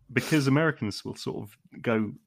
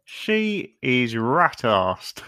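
drawn out slowly, scandalised; lightly voiced gossip; slow mock English verdict; 3 semitones higher, much slower than usual.

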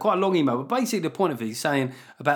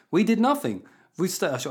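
put-on a light German accent, cut short; German accent, first try; 4 semitones higher than usual. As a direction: begin the German accent, then break off. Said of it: "I've got to do the accent".

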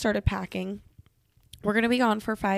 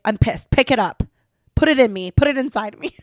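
loud, hammed-up demand; comic fake fury, louder; mock angry shout; 2 semitones higher, 9 dB louder, faster than usual. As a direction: yell it as a joking order.

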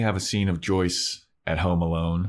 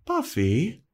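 higher, calling out; worried Joyce calling; 9 semitones higher than usual. Retold or imitated. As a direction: call out to her daughter. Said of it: "she goes".

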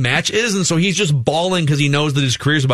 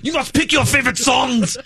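mock announcer; 11 semitones higher than usual. Joining the TikTok bit.

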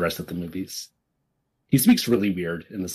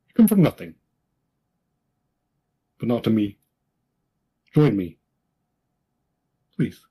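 Kylo Ren voice. Acted. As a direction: press Rey hard, then plead. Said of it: "the other Ben scene".

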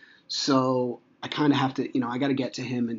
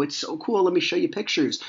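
put-on higher-pitched enthusiasm for kids; excited dad; 6 semitones higher than usual. Dad offers to show his kids pictures, excited. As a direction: sell it eagerly to the children.

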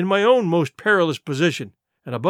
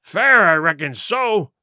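slow, a bit louder; slow agreement; 4 dB louder, slower than usual. Acted. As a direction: take your time, sure of it. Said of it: "said the sea cook".

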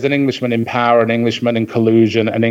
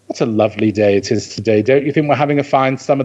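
grand British; faster than usual. Acted. British expat opening doors with American customer service, grand British accent. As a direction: put on a grand, terribly proper British accent. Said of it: "they become terribly Hyacinth Bouquet over here".

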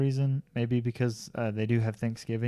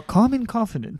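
Cesar Millan impression; 10 semitones higher, 5 dB louder than usual.

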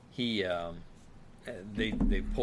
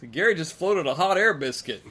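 mock Wyatt line; 8 semitones higher, 9 dB louder than usual. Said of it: "And then Wyatt says".

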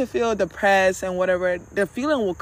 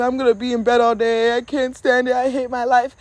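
acted self-pitying rant, kept on one level; spiraling despair; 4 semitones higher, 3 dB louder than usual. Depressed person spiraling, acted despair. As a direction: pile up the complaints in mock despair. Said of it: "you're depressed and you're sad and you're spiraling".

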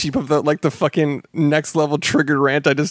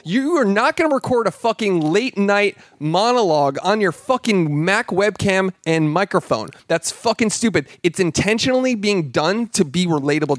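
higher, heated fed-up tirade; real rant; 4 semitones higher than usual. Real, not acted. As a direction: vent your irritation full steam. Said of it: "I am so mad".

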